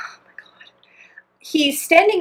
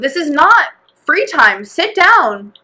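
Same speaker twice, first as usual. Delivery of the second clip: mild firm telling-off, slower and stretched; retold scolding; 4 semitones higher, slower than usual. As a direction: reenact putting a child in line. Scolds kid in retold exchange.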